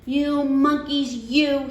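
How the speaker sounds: mild annoyed peddler scolding. Acted. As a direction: scold the monkeys, slowly. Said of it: "shaking his finger at them".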